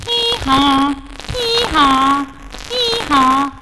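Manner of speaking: high braying hee-haw; donkey bray. Acted. Storyteller brays like the donkey.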